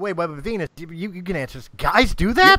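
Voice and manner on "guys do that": shocked question. Real, not acted. Shocked question about fake numbers.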